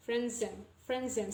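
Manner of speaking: "Franzen" run together as one word; linked pronunciation. Shown as a demonstration. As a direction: join the s onto the next syllable in "Franzen". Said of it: "will join the s".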